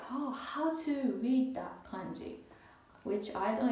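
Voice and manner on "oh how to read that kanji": higher, puzzled musing to herself; puzzled self-quote. Retold or imitated. Puzzled over a kanji she can't read, higher musing voice. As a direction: act out her own confusion over a kanji. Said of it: "Sometimes I'm like".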